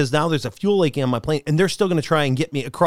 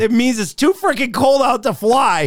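sarcastic translation; 6 semitones higher than usual. Retold or imitated. Translating pilot talk mockingly.

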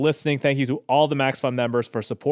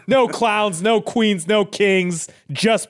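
mock rallying cry; 7 semitones higher, slower than usual. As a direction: rouse the crowd with the slogan. Rallying slogan shout.

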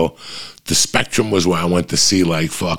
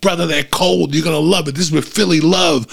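high, louder hawker voice; Philly beer vendor; 8 semitones higher, 3 dB louder than usual. Retold or imitated. Imitating the vendor pushing cold beer with Philly love. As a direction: sell it like a smooth vendor. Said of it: "The guy was talking to me like that".

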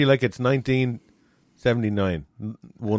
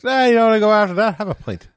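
loud, fast, high pub shout; rowdy call; 9 semitones higher, 5 dB louder than usual. Retold or imitated. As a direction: egg them on loudly to the pub. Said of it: "And they were like".

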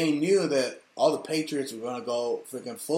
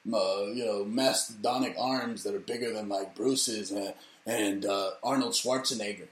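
mocking Michelle Obama; 6 semitones lower, 5 dB quieter than usual. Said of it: "It's always like".

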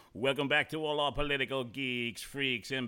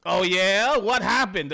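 surprised; 4 semitones higher, 9 dB louder, slower than usual. Real, not acted. Host reacts to news.

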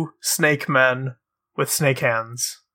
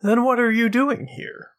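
snake man asking; 6 semitones higher than usual. Acted. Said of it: "Hiss looks at you and says".

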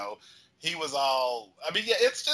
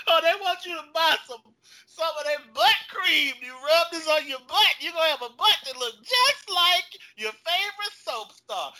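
hammed-up louder, higher infomercial voice; mock sales pitch; 6 semitones higher, 6 dB louder than usual. Soap star mocking a butt cream pitch. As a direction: sell it like a cheesy influencer.

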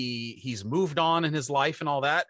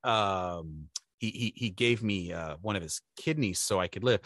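mother's voice; 9 semitones lower, 5 dB quieter than usual. Retold or imitated. Mother's lower voice replies.

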